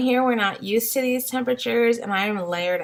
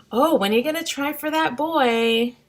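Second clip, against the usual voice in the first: lightly voiced, higher sugary busybody; nosy nice people; 5 semitones higher than usual. Strangers asking mom of three girls about a boy, lightly mimicked sweet prying. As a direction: chirp it up like a well-meaning stranger. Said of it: "and they're like".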